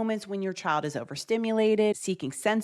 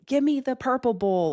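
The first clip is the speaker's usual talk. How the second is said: imitating a demanding toddler, higher; mock toddler scream; 7 semitones higher, 3 dB louder than usual. Imitating a toddler demanding a snack, mock scream. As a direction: squeal it like a toddler wanting something. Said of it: "They're screaming".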